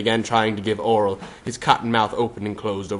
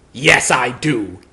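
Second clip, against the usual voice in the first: slow, drawn-out hat voice; 2 semitones higher, 6 dB louder, much slower than usual. Acted. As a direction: drag it out slowly.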